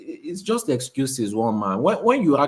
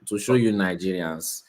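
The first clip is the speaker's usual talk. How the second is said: sarcastic; 4 semitones lower than usual. Real, not acted. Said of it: "I can hear sarcasm in your voice already".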